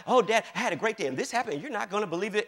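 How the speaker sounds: quick, chatty daughter impression; imitating happy daughter. Daughter telling dad about her day, imitated happy chatter. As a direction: rattle it off like a happy kid. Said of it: "when she's happy".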